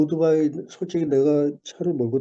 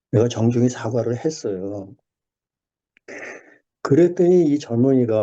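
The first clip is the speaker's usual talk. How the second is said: ordinary talk, nothing marked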